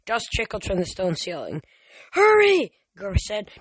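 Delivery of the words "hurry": high, loud, drawn cry to hurry; urgent high yell; urgent shout. Acted. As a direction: urge them on at the top of your voice. Grover urges escape from pursuer.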